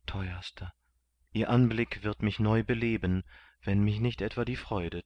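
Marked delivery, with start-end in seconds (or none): 0.1-0.7 whisper. A narrator's reading. Kunigunde whispering to her beloved Kandid. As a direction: whisper the endearment.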